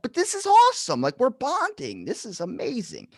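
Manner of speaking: gush, then drop to a hush; thrilled, then fading. Retold or imitated. Thrilled reply to grandmother.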